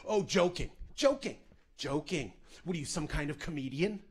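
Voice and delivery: mocking words through clenched teeth; through her teeth. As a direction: sneer it through gritted teeth. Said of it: "through her teeth".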